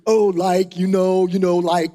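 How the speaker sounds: lightly imitated American filler talk; a hint of a mock American accent. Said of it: "The Americans, they love to punctuate".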